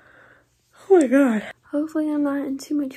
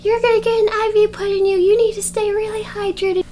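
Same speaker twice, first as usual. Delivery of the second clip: imitating doctor dad; 8 semitones higher, 3 dB louder, faster than usual. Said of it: "so of course he was like".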